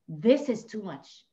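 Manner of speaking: ordinary talk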